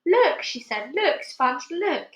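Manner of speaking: high startled cries of look; astonished. Acted. Aunt seeing the peach grow, astonished high calls. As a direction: gasp it out in shock. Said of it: "as though she had seen a ghost".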